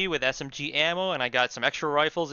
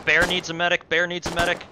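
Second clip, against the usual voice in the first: raised voice, urgent call for help; calling out for a medic; 4 semitones higher, 5 dB louder than usual. Real, not acted. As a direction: shout for the medic across the field. Calling for medic under fire.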